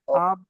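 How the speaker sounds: "আব" with lips closing then springing apart; bouncing final b in "আব"; qalqalah bounce. Shown as a demonstration. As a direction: hit the b of "আব" and release it. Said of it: "মাখরাজে লেগে আলাদা হয়ে যাবে".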